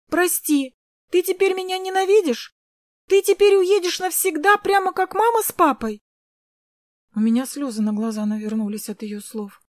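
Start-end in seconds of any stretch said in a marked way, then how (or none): 0.1-0.7 a high, louder, tearful sorry; little sister crying out to her brother; pleading apology. A narrator's reading. Girl begs her brother, crying. 1.1-6.0 high, louder, desperate tearful questions; little sister begging her brother not to leave; tearful pleading. A narrator's reading. Girl fears brother will leave.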